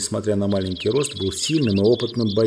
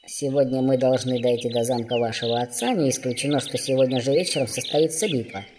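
formal dwarf; 3 semitones higher than usual. A narrator's reading. Dwarf addresses the young prince, formal. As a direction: address royalty stiffly as a dwarf.

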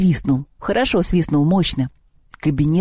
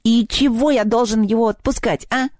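high, stubborn goblin voice; balky goblin; 7 semitones higher than usual. A narrator's reading. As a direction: dig in and refuse, pitched high. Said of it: "набычился кабинетный".

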